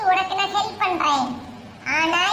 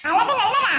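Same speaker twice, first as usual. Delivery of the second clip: high-pitched anxious sibling voice; scared young sibling; 4 semitones higher, slower than usual. Acted. Siblings waiting for mother's call, nervous and high. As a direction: fret nervously over the phone, pitched up.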